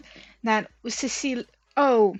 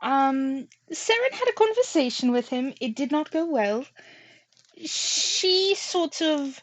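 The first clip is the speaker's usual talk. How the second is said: tour guide; slower than usual. Acted. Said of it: "I sounded like a tour guide there".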